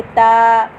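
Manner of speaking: "ता" said thin and light, slowly. Shown as a demonstration. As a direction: keep "ता" thin, tongue forward. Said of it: "ता को मैंने बारीक पढ़ा है". ("ता" बारीक अदा करें)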